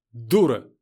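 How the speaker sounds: loud sharp insult; angry scold. A narrator's reading. Натка snaps at Машка, loud. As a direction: hurl the word at her.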